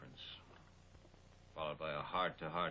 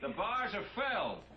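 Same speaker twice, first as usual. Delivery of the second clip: "filled" hit hard, much higher and louder; exasperated correction; 5 dB louder than usual. Acted. Chief snapping back at his friend, stress on "filled". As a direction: slam the word "filled" up high and loud.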